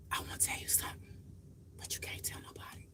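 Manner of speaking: whispered confidence; secret whisper. Retold or imitated. Imagined relative confiding a secret, whispered. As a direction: hush it like a secret. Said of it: "Nobody said".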